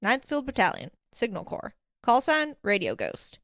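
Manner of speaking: proud announcement. Acted. Alistair giving his unit and call sign, proudly. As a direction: roll out the titles proudly, item by item. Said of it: "he announced proudly".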